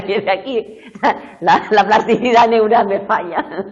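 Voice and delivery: amused student quote, half laughing. Retold or imitated. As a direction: laugh while voicing the student's complaint. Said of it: "decía".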